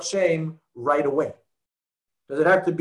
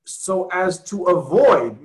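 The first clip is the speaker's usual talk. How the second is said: so as to avoid, slow and a bit louder; stressed quote; 4 dB louder, slower than usual. Shown as a demonstration. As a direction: lean on avoid. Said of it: "Here it says".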